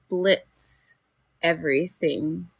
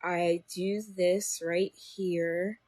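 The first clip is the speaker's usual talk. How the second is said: cobra confidence; 3 dB quieter, much slower than usual. Acted. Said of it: "I feel like a cobra".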